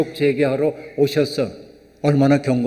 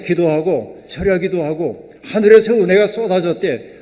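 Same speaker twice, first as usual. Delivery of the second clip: mocking retelling; 3 semitones higher, 4 dB louder than usual. Real, not acted. Preacher mocking the deaconess's boast to the congregation. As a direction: throw 하늘에서 back in ironic disbelief. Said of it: "그 얼마나 기가 막힌 얘기인지".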